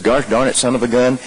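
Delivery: mild mock yelp at a bumped knee; pained outburst. Man who bumped his trick knee curses the pain. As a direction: swear at the pain, not at anyone. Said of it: "fundamentally different than if he walks in".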